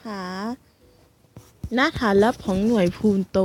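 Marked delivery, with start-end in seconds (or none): 1.7-3.4 lower, mock-suave narrator voice; self-mocking handsome read. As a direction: put on a dashing hero voice. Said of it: "ทำเสียงหล่อทำไมวะ".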